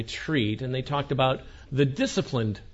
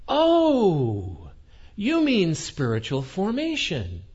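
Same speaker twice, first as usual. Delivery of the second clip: dawning manager; 4 semitones higher, slower than usual. Retold or imitated. Manager finally recognizes term.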